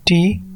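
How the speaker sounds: टी as one separate syllable; syllable demo. Shown as a demonstration. Teacher counting syllables for learners, टी said on its own. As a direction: say टी alone, the middle beat of beautiful. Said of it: "दूसरा syllable".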